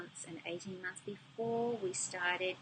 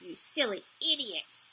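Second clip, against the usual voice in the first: intense, scolding "You silly idiot"; harsh self-criticism; 3 semitones higher, 5 dB louder than usual. Shown as a demonstration. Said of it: "I would say it with that level of intensity".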